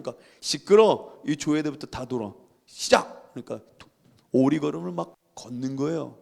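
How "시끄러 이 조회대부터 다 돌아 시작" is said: loud opening, curt command; stern teacher's order. Retold or imitated. Teacher ordering pupils to duck-walk, stern command. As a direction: cut the protests short like a strict teacher.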